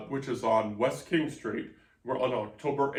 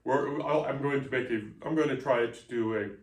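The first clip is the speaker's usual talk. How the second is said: jittery, rushed caffeine-fuelled talk; hopped up on coffee, words tumbling out; too much caffeine. Real, not acted. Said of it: "We're so caffeinated right now".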